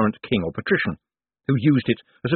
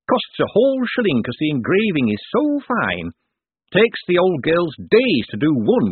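a cheerful rogue grumbling about costs; wheedling old foreman; 7 semitones higher than usual. Acted. Narrator voices Shady the foreman.

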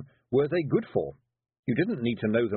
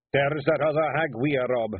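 excited Scots pixie, higher and louder; Feegle Hamish; 4 semitones higher, 4 dB louder than usual. Acted. Hamish warning Rob about the hiver, blurting Scots pixie. Big Yan voiced.

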